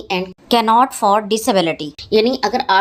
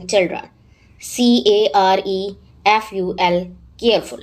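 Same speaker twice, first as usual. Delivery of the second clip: letters spelled out one by one, then the word; teacher's letter-by-letter spelling drill; spelling aloud. Shown as a demonstration. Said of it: "syllables को join करें और अल्फाज बनाएं".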